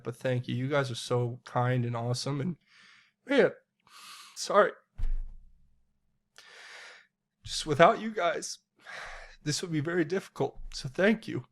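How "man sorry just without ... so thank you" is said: choked up. Real, not acted. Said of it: "I get a little choked up".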